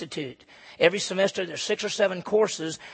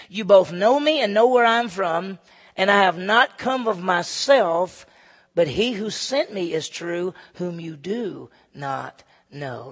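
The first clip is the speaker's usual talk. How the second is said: crying out; 7 dB louder, slower than usual. Retold or imitated. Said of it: "Jesus cried out in the temple".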